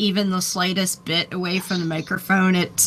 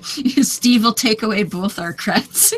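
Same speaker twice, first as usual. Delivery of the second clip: laughing; 2 semitones higher, slower than usual. Real, not acted. Joking about losing creds.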